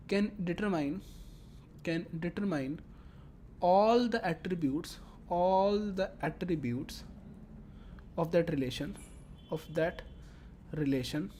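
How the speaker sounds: slow, spaced-out repetition for learners; slow dictation. Real, not acted. Lecturer repeats a definition for students, slow and deliberate. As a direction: dictate it phrase by phrase, stretching the words. Teacher repeats phrases slowly while explaining.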